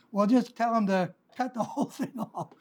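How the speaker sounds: quoting Paul with a laugh breaking through; chuckling through the blunt advice. Retold or imitated. Preacher laughing as he voices Paul's blunt line. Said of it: "Paul says".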